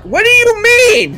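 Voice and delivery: high, drawn-out incredulous demand; mock-exasperated wail, stretched out slowly; acted exasperation. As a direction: throw the question back in baffled disbelief.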